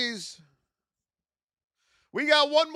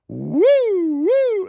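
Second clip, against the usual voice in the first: excited whoops; 9 semitones higher, 10 dB louder than usual. Real, not acted. Showing off his new castle.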